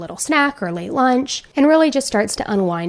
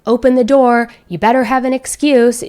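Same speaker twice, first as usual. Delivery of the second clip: mildly raised, impatient mock shout; louder retelling of an irritated demand; retold shouting; 3 semitones higher, 6 dB louder than usual. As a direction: call through the door, acting fed up. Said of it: "he starts shouting at Ellen".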